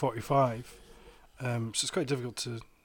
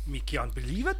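a playful go at the Jamaican patois line; lightly imitating a Jamaican poet; mock Jamaican accent; 3 dB quieter than usual. Friend imitates the reggae poet's Jamaican accent for the hosts. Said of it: "That's good".

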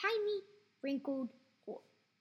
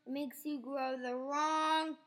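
a slow, louder snap; snapping; 8 dB louder, slower than usual. A narrator's reading. Grandma snaps her warning at George, slow and louder. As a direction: bite off each word, slowly. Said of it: "she snapped".

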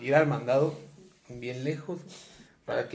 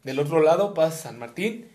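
imitating mom; 4 dB louder than usual. Imitating mom giving errand.

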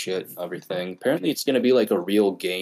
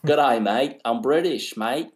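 British accent sliding into Aussie; confused mock British; British accent attempt; 3 semitones higher than usual. Shown as a demonstration. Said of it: "What about, uh, British?".

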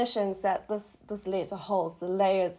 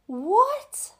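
eyes wide, can't believe it; jaw-dropped what; 11 semitones higher than usual. Retold or imitated. Staring at her healed foot, high stunned what. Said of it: "with huge eyes, mouth open, going".

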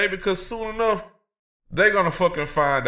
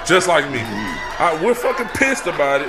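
angry shouting. Acted. Host rants about the network.

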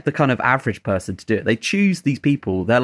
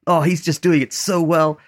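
put-on American accent; 5 semitones higher than usual. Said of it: "That's my American accent".

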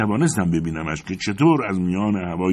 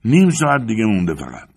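raised, higher calling voice; shouted call; 5 semitones higher, 6 dB louder than usual. A narrator's reading. Climber telling his friend below time left, calling out. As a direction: call it down from a distance. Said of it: "جافی فریاد زد".

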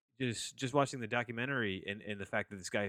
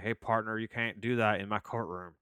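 put-on Southern accent. Judge telling off a defendant in his courtroom, in a Southern accent. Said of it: "doesn't do it with a Southern accent".

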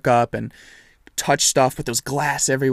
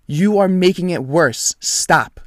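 firm retold telling-off; controlled anger, each word driven home; pissed off; 4 semitones higher than usual. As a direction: lay down the law, annoyed. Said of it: "'cause I was pissed".

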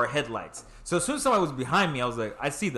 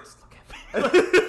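high, loud, slow plea through a laugh; half-laughing urgent appeal to a friend; mock pleading; 12 semitones higher, 6 dB louder, much slower than usual.

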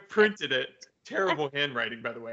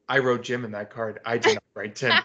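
brain blast realization; 5 semitones lower than usual. Retold or imitated. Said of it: "Jimmy Neutron was like".

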